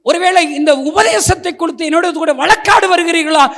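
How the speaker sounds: loud, high challenging questions; preaching at full force. Acted. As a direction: fire each question at the listeners.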